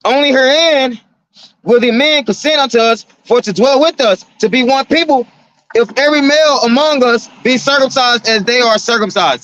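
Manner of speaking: preacher reading King James aloud; scripture reading. Acted.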